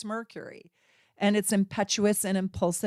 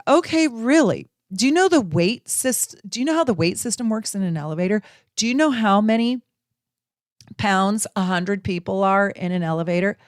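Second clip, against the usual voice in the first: mock indignant boyfriend; 4 dB louder than usual. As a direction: ham up a know-it-all boyfriend grilling her. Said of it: "He's like".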